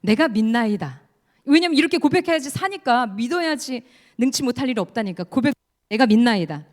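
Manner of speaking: loud, rising preaching intensity; fervent confession. Acted. Preacher urging the father's confession, loud and fervent. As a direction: proclaim it with full conviction. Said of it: "이렇게 고백합니다".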